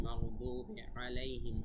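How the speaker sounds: "মাগদুবি আলাইহিম" slowly, ayn squeezed in the throat; throaty ayn. Shown as a demonstration. Teacher modelling ghayn and ayn, throaty "মাগদুবি আলাইহিম". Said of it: "আইন গলার ভেতর থেকে".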